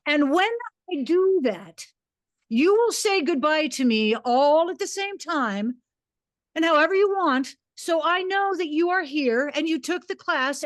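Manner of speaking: booming teacher, breaking toward the end; booming command. Retold or imitated. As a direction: command the room. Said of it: "with a booming command in my voice".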